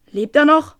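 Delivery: a rumbling giant asking; deep rumbling bass. A narrator's reading. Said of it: "kein piepsende Koboldstimme, sondern ein tiefer, grollender Bass". (tiefer, grollender Bass)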